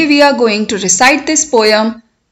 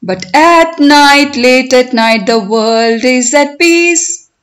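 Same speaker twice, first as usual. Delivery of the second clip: poem recitation. Shown as a demonstration. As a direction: recite it for learners, stretching the words, lifting line endings. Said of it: "I will recite line by line".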